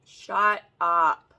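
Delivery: two heavy, emphatic words of amazement; stunned disbelief. Real, not acted. Still staring at the palette, loud stunned disbelief.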